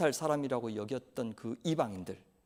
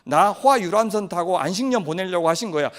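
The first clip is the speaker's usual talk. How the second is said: smug glee; 5 dB louder than usual. Acted. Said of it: "라고 생각해서 탔죠".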